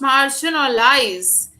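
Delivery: MARGINALIZE said slowly and deliberately; slow teacher's demonstration of how to pronounce MARGINALIZE; careful pronunciation. Shown as a demonstration. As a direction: spell out MARGINALIZE by ear, unhurried. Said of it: "how it is pronounced".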